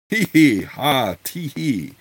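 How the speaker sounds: spoken-out tee-hee, starting high; lightly acted elfish giggle, each syllable voiced; mock titter. Keek amused while inviting Melf to supper, mock titter. Keek's titter read out in dialogue.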